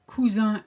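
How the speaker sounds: cousin ending in a nasal "un"; French nasal ending. Shown as a demonstration. Teacher showing learners the masculine form, nasal French ending. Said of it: "ends in the sound un".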